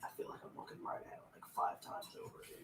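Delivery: hushed, fast whisper to oneself; whispered muttering. Real, not acted. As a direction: mutter it rapidly, barely audible. Muttering while searching for piece.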